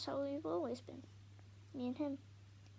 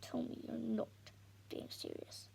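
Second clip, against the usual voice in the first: tense. Acted. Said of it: "his voice tense, as deadly as a snarl".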